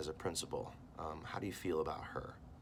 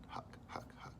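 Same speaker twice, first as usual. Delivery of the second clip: quiet choking huck; 11 semitones lower, 12 dB quieter than usual. Acted.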